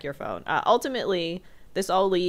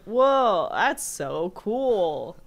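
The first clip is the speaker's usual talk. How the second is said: mock teen awe; 3 dB louder, much slower than usual. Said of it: "the one teenager's like".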